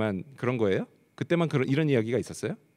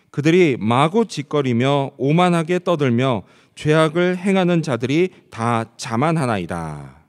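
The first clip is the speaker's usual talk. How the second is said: slow, measured congregational Bible reading; scripture reading; 5 dB louder, slower than usual. Acted. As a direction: read the verse out loudly and deliberately, phrase by phrase. (성경 봉독하듯 느리고 또박또박)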